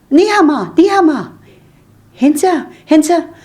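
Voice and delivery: high, loud calling Ni hao ma; calling out on the phone. Retold or imitated. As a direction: shout the Chinese greeting down a bad phone line. Calling into phone to Chinese man.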